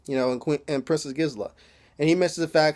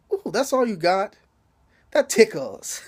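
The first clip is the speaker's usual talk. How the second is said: higher-pitched mock French accent; 5 semitones higher than usual. Tied-up man taunting the woman with the whip, French accent. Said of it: "his little French accent".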